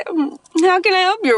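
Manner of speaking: Siri impression. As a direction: chirp it out like a phone assistant answering. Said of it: "Or whatever she says".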